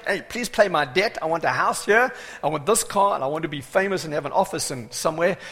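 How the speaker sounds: lightly acted wish list to God; mock demanding prayer. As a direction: rattle off greedy requests with insistence. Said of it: "You know what most of us today".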